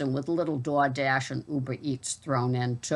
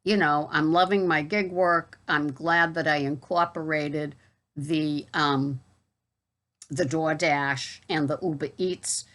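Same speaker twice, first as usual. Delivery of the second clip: casual Boston accent chat. Real, not acted. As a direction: talk it through in a Boston accent. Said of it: "I hope you enjoyed my Boston accent video".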